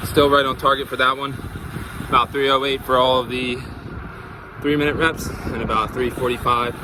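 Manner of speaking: pushing through heat, talking between efforts; cycling hard. Real, not acted. Hot ride, between reps.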